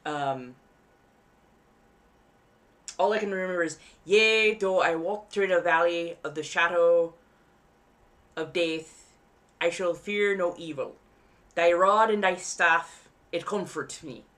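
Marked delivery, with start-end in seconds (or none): 4.0-14.2 louder, elongated Renaissance faire British accent, every letter pronounced. Shown as a demonstration. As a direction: recite the psalm in a stately faire British accent, drawing out the words. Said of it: "it honestly sounds very British".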